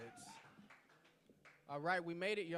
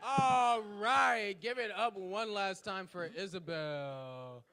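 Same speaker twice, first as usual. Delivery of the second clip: booming all right to rally the room; loud hype call; 4 semitones lower, 6 dB louder than usual. Real, not acted. Host shouting to fire up the crowd, loud.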